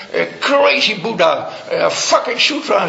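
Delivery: slurred, mock-drunk cursing at Buddhism; drunken cursing. Drunk monk back from the bar curses Buddhism, mock slurred rant. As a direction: ham up a drunk monk railing. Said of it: "begon hij te schelden op het boeddhisme".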